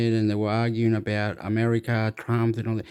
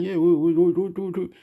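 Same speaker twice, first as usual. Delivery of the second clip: imitated reporter; 5 semitones higher than usual. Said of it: "the other reporter was going".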